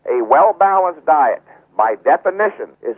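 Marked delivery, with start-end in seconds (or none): 0.1-1.4 well-balanced stretched out slowly; slow down and weigh well-balanced; slow emphasis. Shown as a demonstration.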